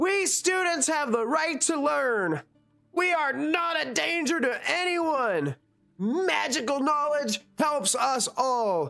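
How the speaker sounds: very high, shrill, angry yelling. A halfling picketing on a street corner shouts at passersby, yelling angrily. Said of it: "yelling things like".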